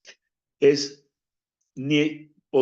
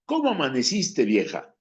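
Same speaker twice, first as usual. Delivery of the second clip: newlywed tenderness; 3 semitones higher than usual. Shown as a demonstration. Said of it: "no cambié ni una sola letra".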